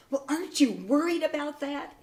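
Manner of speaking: concerned husband. Retold or imitated. Husband questioning his unflappable wife, mock concern. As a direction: retell his worry, pitched well up.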